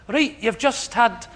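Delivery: put-on a clumsy stab at a Scottish PA's accent; bad Scottish accent. Panellist mocks Paris Hilton's PA in a bad Scottish accent. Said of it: "is that a good accent?".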